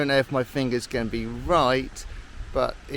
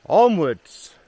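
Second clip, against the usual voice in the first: loud, rousing call forward; rally yourself onward; excited call; 3 semitones higher, 10 dB louder than usual. Real, not acted. Pushing on up the trail.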